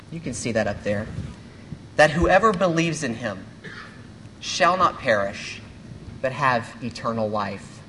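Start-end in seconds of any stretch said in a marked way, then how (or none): 2.0-7.8 unhurried, with a pause between phrases; read slower. Shown as a demonstration. Pastor rereading John three sixteen to listeners, slow and measured. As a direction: let each word sink in, slowly. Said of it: "and this time I'm gonna read it slower".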